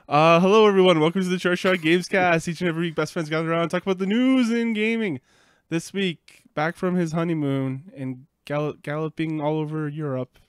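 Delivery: podcast host intro. Acted. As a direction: welcome listeners like a host. Podcast intro announcer read.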